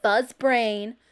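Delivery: loud sulky answer; loud grumpy comeback; angry retort. A narrator's reading. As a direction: fire back the insult. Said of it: "Abel answered".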